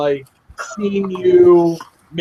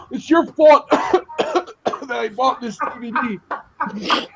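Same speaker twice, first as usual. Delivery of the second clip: laughing through a quote; 6 semitones higher, much slower than usual. Retold or imitated. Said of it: "you're over there like this".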